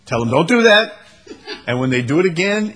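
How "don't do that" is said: louder, higher mock telling-off; mock parental yell. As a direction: raise your voice like a fed-up parent. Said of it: "The temptation is to yell at him".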